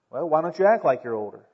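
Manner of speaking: level, unimpressed comeback; matter-of-fact retort. Acted. Adult answers a complaining young person, matter-of-fact retort. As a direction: answer the complaint back evenly.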